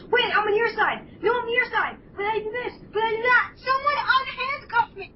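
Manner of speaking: high-pitched frantic waffling; flip-flopping Starscream. Acted. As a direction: switch sides loudly, line by line. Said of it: "keeps changing his mind every five seconds".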